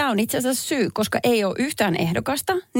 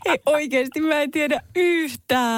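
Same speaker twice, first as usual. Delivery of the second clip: high, drawn-out protest; stumped contestant's slow whine; flustered giving up; 7 semitones higher, slower than usual. Real, not acted. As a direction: plead total ignorance in a stretched-out, raised voice.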